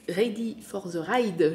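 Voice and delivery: slow English in a French accent; English title read out with French-accented sounds; unhurried, frankly French-accented English. Real, not acted. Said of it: "je vous le dis avec mon accent français".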